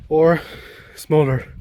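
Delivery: panting after climbing stairs; breathless, catching breath. Real, not acted. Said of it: "Yeah, I'm out of breath".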